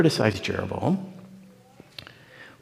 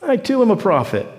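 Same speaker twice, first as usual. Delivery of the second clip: smooth liar; 10 semitones higher, 3 dB louder than usual. Acted. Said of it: "And the old prophet said".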